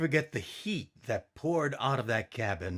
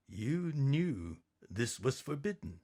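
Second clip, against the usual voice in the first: stern quiet; 2 semitones higher, 6 dB quieter than usual. Acted. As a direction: quietly scold your wife. Daddy confronts Mama.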